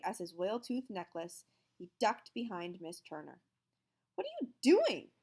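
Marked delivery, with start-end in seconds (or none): 4.2-5.1 high, loud shriek. A narrator's reading. Librarian shrieking at the hiding teacher, high and loud. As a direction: shriek at him in alarm. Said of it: "she shrieked".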